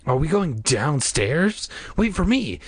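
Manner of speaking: put-on high, drawn-out eager kid voice; calling after. A narrator's reading. Casey hurrying to join them, calling out.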